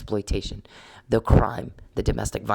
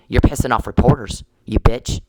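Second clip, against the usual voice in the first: angry; 5 dB louder than usual. Real, not acted. Ranting at opponent.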